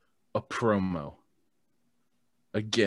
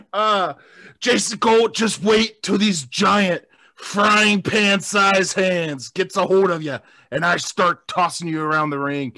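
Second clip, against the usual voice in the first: Hulk Hogan voice. Acted. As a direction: shout it like Hogan. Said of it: "They're all going Hulk Hogan now".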